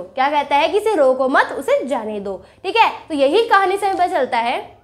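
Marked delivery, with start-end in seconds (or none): 0.8-2.4 इसे रोको मत rising as one phrase, उसे जाने दो falling low; pause after मत. Shown as a demonstration. Mohan relents about the boy, pausing after मत. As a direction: break only after "मत", then drop on "उसे जाने दो". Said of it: "रोको मत" के बाद रुकेंगे".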